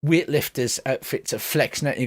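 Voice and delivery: normal talking voice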